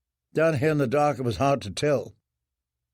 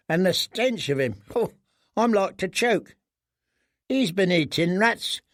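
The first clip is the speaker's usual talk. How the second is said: lightly voiced disgusted boy; 6 semitones higher than usual.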